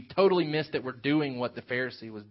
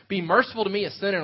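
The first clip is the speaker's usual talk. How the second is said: louder and higher, a desperate plea; crying out; 5 semitones higher, 4 dB louder, faster than usual. Retold or imitated. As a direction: cry it out to God for mercy. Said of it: "he's crying out to God".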